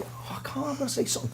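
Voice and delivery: whispered inner panic, breathless with dread; panicked whisper. Retold or imitated. Drummer telling himself he has to speak up, panicked whisper. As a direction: hiss it to yourself as if nobody may hear.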